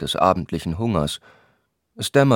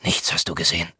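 curt; 2 semitones lower, 3 dB quieter, faster than usual. A narrator's reading. Thilo turns away impatiently from his friend, curt. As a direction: drop it tersely, a little muted. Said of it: "meinte er nur knapp".

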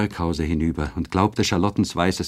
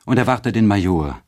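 louder, higher urgent call; Ottilie calling out; 3 semitones higher, 5 dB louder than usual. Acted. Ottilie urging Eduard to await the Major, calling out. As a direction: send him off with a raised plea. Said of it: "rief sie aus".

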